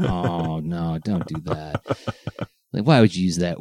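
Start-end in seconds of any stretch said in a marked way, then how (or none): 0.0-1.8 imitating Alvatron. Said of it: "Alvatron's like".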